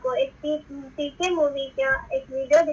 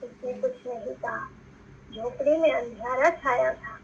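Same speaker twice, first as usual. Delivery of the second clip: expressive story reading. Shown as a demonstration. Teacher reads a Hindi story to her pupils, expressive reading. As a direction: read the passage aloud with feeling and clear pauses. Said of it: "अब मैं आपको सही तरीके से पढ़कर बताऊंगी".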